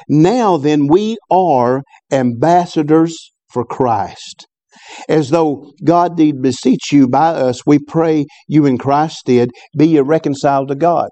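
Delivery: slow, weighty reading of the verse; scripture reading. Real, not acted. Preacher reads Paul's words to the congregation, slow and solemn. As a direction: read it slowly so every word lands.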